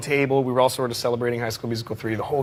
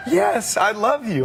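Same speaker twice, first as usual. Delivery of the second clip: much higher, gentle voice; impression of a famous singer; 9 semitones higher, slower than usual. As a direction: float it up high and sweet. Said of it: "And he goes".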